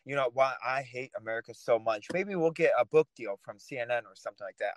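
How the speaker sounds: sarcastic suggestion to Michael about posting hate for a book deal. Pretend. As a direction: pretend to want to sell out, dripping irony. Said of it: "I'm being sarcastic".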